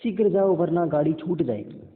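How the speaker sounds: teacher reading the example as a command. Shown as a demonstration. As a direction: snap out शीघ्र जाओ like an order. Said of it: "कैसा आदेश दे रहा है".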